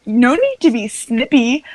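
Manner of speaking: slow, lightly mimicked snippy kid; little sister mimicry. Podcaster showing how the little sister talks, slow light mimicry. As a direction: stretch it out like the show's child. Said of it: "that sounds exactly like she sounded".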